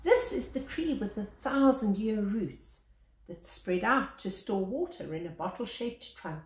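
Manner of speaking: measured picture-book reading, lingering on each line; story narration. Acted. Reading the baobab picture book aloud to children, storyteller voice. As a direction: read it like a gentle bedtime tale.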